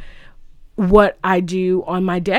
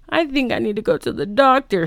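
high-pitched mock-frail voice; put-on high voice of a woman in shock; dazed movie wife; 6 semitones higher than usual. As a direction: say it high, imitating the stunned wife. Retold stunned wife speaking.

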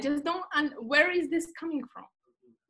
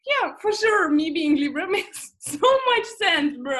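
1 mock agreeing; 3 semitones higher, 5 dB louder than usual. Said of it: "but I was like".

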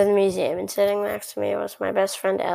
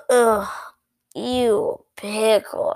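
drawn-out, mildly disgusted groan of complaint; much slower than usual. Acted. Kid who just bit into a pickle, disgusted. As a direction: stretch it out in mock disgust.

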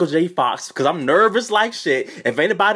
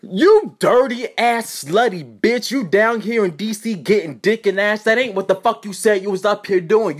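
mock angry tirade, mildly raised; imitated cussing out; 3 semitones higher than usual. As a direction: lay into someone, imitating an angry roommate. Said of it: "My roommate cussing me".

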